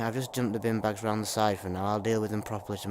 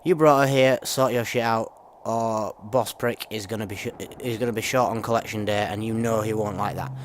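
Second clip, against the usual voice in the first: louder, rough threatening read; hard man warning his mate; menacing thug's note; 6 dB louder than usual. Acted. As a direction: lay down the threat like a gang enforcer.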